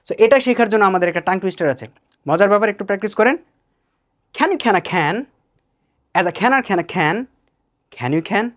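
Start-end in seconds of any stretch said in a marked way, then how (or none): 4.4-8.4 tongue twister phrase by phrase; slow practice take. Shown as a demonstration. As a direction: pause after each question for the learner. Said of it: "Start slowly". (ধীরে, থেমে থেমে tongue twister)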